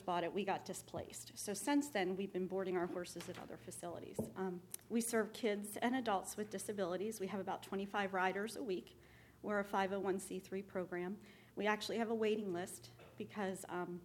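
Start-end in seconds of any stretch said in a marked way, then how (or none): 4.4-14.0 nervous, shaking voice. Real, not acted. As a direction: voice trembling with nerves. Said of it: "My voice is shaking".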